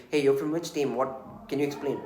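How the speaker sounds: blunt, pushy question to a stranger; rude demand. Shown as a demonstration. A manager rudely grilling a team on the call, blunt. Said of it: "you can't be so rude".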